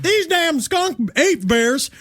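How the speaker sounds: a hammed-up Boston accent that keeps sliding South; bad Boston accent. Boston cop voice for the officers, a bad Boston accent. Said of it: "I can't do a Boston accent".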